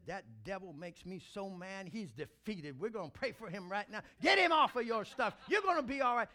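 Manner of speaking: rising to a loud preacher's shout; from calm to a loud call; mentor's rallying words. Retold or imitated. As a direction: fire it up like a pastor rallying you. Mentor's encouragement, quoted preacher style.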